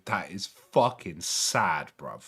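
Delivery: lightly put-on British mate voice; mock British lad. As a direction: drop into a London-lad drawl.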